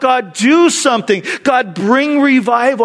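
high, emphatic plea; crying out. Retold or imitated. Church begging God for revival, crying out. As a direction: cry upward in earnest prayer. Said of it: "And we cry out".

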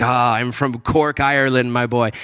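lightly imitated Irish accent; slow, hinted Irish lilt; a touch of Cork Irish. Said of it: "he's got this accent".

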